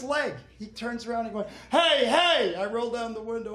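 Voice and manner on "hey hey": startled yell. Retold or imitated. Pedestrian yells at car.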